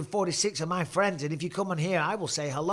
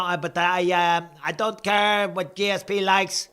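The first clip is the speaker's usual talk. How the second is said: higher, louder mock Canadian accent; put-on Canadian accent; 3 semitones higher, 5 dB louder than usual. Streamer answering a chat jibe about the accent, mock Canadian accent. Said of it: "not impressed with that accent".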